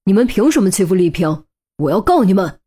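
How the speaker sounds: lightly voiced angry roar; a touch of a furious lover; angry shout. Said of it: "怒气冲冲地吼道".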